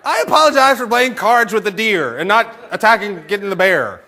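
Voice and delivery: high, loud mock contrition; hammed-up protesting apology; exasperated apology. Husband's exasperated apology to wife.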